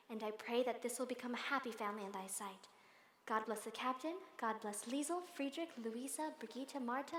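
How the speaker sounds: hushed, earnest prayer to God; bedtime prayer. Acted. Governess praying alone at night, earnest prayer voice. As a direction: pray sincerely, listing each name. Maria kneels praying at bedside.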